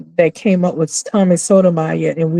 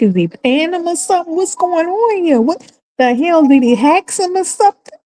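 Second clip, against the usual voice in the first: much higher, fast baffled questions; rapid-fire disbelief; stunned viewer wondering aloud; incredulous; 11 semitones higher than usual. Retold or imitated. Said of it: "I'm like".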